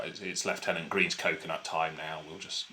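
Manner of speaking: low, quiet mock announcement breaking into laughs; giggling through a mock puppet line; laughing mock hero. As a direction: try to keep a straight face as Scarlet and fail. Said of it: "Captain Scarlet will turn around and go".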